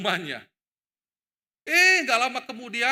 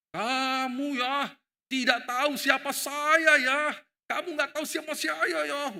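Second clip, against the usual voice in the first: slow, higher, louder angry threat; 8 semitones higher, 4 dB louder, slower than usual. Retold or imitated. Retired man threatens the truck driver, slow and furious. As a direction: menace the garbage driver. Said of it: "Wah, dia marah".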